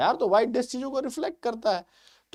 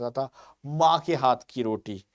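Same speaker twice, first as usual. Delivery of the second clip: mock emotional ad line; 7 semitones lower, slower than usual. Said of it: "ऐसे emotional advertisement डालते हैं".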